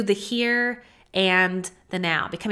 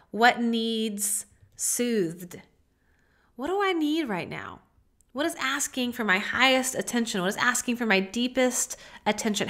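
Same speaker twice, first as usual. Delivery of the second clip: guided meditation. Acted. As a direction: lead a gentle self-inquiry. Guided self-inquiry, soft.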